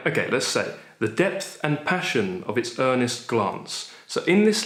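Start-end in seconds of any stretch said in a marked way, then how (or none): none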